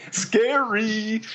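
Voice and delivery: high, breathy mock spooky whisper; playfully spooky, high and whispery; scary voice. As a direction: draw it out in a pretend scary voice. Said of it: "That's my scary voice, by the way".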